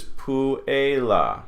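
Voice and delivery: "puela" slowly, u and e sounded separately; measured "puela" with no diphthong; separate vowels. Shown as a demonstration. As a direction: split "puela" into pu-e-la. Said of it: "they're gonna be separate".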